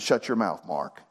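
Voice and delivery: gentle, low-pitched retold rebuke; softly and kindly set them straight, voice dropping at the end; quietly correcting a friend. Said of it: "you know what he said very kindly".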